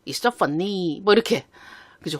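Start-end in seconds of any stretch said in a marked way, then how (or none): 0.1-1.0 Chinese-accented English with a falling end on "so"; a Chinese-accented English demo that drops at the end. Shown as a demonstration. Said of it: "가까운 중국만 하더라도 중국식 억양이 있어요". (중국식 억양 영어, 끝을 내려서)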